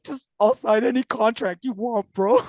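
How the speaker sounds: high, loud burst of eager surrender; passionate eagerness. Retold or imitated. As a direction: blurt it out, completely won over. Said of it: "I felt so passionately".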